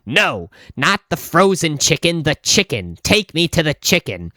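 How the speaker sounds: imitating an annoyed customer, mildly emphatic; a touch of exasperated demand; annoyed insistence. Annoyed lady correcting the clerk, insistent. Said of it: "says louder this time".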